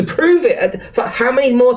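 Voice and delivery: words break into a high laugh. Real, not acted. Ranting streamer to his chat, laughing in disbelief. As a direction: laugh out the end of the rant in disbelief.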